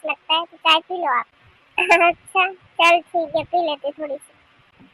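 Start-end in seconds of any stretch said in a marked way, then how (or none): 1.8-4.8 slow, amused giving-in; chuckle, then agree at an easy pace; laughing consent. Acted. Sister-in-law gives in to a little tea, with a laugh.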